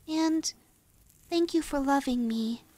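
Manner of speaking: soft and low gratitude; tender thanks. Acted. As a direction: murmur heartfelt thanks. Grateful ending to master.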